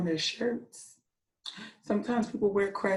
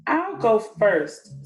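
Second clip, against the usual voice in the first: eager boast; 6 dB louder, much slower than usual. Acted. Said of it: "said a white cockatoo, without waiting".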